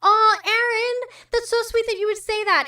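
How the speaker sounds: touched. Real, not acted. Touched thanks to a viewer.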